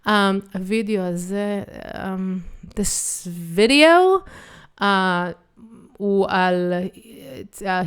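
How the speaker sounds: halting, hesitant mock of a struggling speaker; stop-start searching for each word; mock stumbling. Shown as a demonstration. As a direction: fumble for words as if translating in your head. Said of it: "then the video will probably look like".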